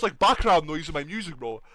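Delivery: ordinary talk, nothing marked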